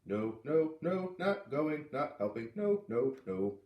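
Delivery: put-on a boy digging in his heels; refusing little boy.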